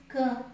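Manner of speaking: CAN said through the nose; nasalized A in CAN, M unheard; nasal vowel. Shown as a demonstration. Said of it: "com som do nariz".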